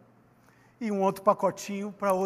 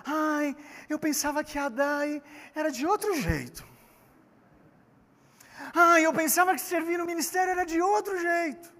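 put-on higher, whining sigh of a disappointed kid; whiny young boy; 5 semitones higher, 3 dB quieter than usual. Imitating young João Marcos whining about ministry. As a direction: mimic a let-down boy complaining. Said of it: "deve ser um menino novo".

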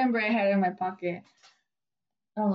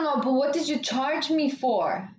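spaced-out customer; 3 semitones higher than usual. Retold or imitated. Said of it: "I don't know what she was off".

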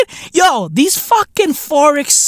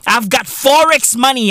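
mock boast; 3 semitones higher than usual. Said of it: "dropping fucking proclamations on some".

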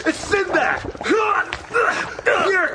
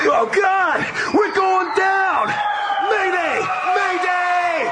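bracing for a crash; 2 semitones higher, slower than usual. Acted. Carpet crashing.

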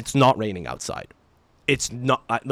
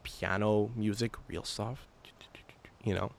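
hushed; 3 semitones lower, 8 dB quieter, slower than usual. Retold or imitated. Telling about quiet breakfast room music, hushed. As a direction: drop to a soft near-whisper.

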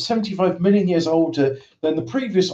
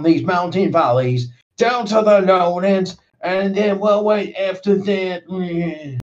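spooky voice; 4 semitones higher than usual. Acted. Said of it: "That was a spooky story".

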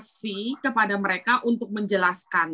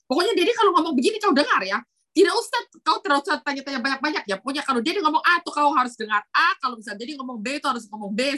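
strict father; 3 semitones higher, faster than usual. Retold or imitated. Voicing strict Papuan father.

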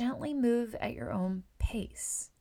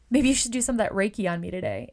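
louder and fast, eager; eager request; 8 dB louder, faster than usual. Retold or imitated. Client asking for Reiki in the chair, eager and louder. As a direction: rush it out, thrilled to ask. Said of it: "They're like".

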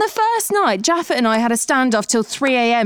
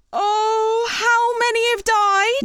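shocked; 8 semitones higher, slower than usual. Acted. Realising animals have died.

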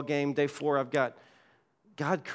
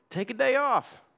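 commanding God voice; 10 semitones higher, 3 dB louder, slower than usual. Acted. God's command voiced by the preacher.

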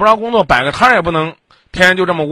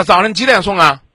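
angry scolding; 4 semitones higher, 5 dB louder than usual. Real, not acted. Host berating caller.

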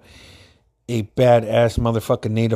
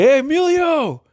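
mock sing-song call. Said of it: "he's like".

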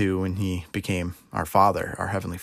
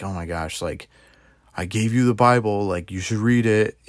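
exasperated. Pretend. God scolding a lazy believer, mildly exasperated. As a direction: lightly play an impatient God, fed up. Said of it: "He isn't like".

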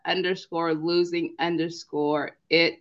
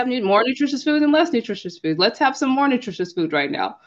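put-on higher, bright sing-song explaining to her kids; upbeat mom voice to kids; 7 semitones higher, faster than usual. Mom coaxing her kids about nutritious food, much higher sing-song. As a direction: cheerfully teach little ones about food. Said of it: "I'm like".

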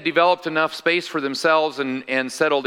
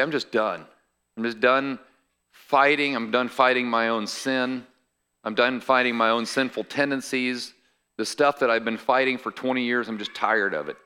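weary. Acted. Preacher voices a believer ready to quit the battle, weary. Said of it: "when you do get weary".

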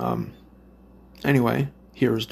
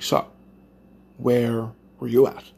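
nosy neighbor tone; 3 dB louder than usual. Retold or imitated. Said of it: "in that exact same fucking tone".

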